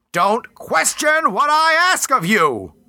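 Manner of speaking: high, slow, furious command; furious goddess. Acted. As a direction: let her fury break out. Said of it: "shook with her fury".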